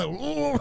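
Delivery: high-pitched laughing "ooh" of a riled crowd; mock angry "ooh". Comic imagining hecklers getting mad, mock outraged "ooh". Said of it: "I can see them getting mad".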